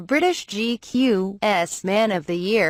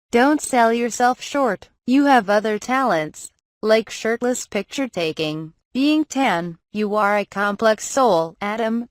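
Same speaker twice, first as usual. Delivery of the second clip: motivational speaker voice. Pretend. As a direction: cheer him on like a life coach. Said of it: "turn on a motivational speaker voice".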